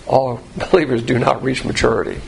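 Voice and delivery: laughing through the words. Real, not acted. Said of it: "with a little laughter in my voice".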